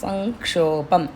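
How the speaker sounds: సంక్షోభం slow, the ం as a throaty ఙ; velar ng in sankshobham. Shown as a demonstration. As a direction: sound సంక్షోభం with ng at the back of the throat. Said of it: "గొంతు మధ్యలోకి వెళ్ళి రావాలి". (సంక్షోభం లో ఙ గొంతు మధ్యలోంచి)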